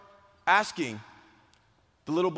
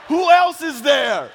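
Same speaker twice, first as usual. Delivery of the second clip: high, slow, hammed-up yell; panicked shout; 9 semitones higher, 11 dB louder, slower than usual. Storyteller re-enacting frantic question to injured boy, panicked shout. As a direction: demand it urgently at full volume.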